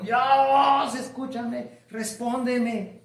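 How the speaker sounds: high, drawn-out mock cry to God; imitated shouted prayer. Man shouting to God in the temple, high pleading cry. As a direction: call out high, easing off after the first cry. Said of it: "él estaba gritando a todo el mundo".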